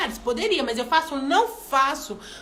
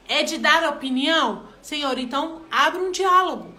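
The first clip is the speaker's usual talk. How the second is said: prayer; 3 dB louder than usual. Shown as a demonstration. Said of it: "orar e pedir ao Senhor".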